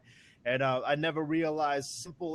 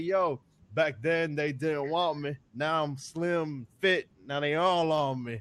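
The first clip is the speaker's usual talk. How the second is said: boastful swagger. Retold or imitated. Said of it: "I'm like".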